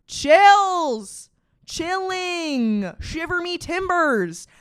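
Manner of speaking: squealed high and loud, then drawn out; a gleeful campy shiver at the twist; mock thrilled exclamation. Real, not acted. Vlogger shrieks at the twist for her viewers, high and delighted.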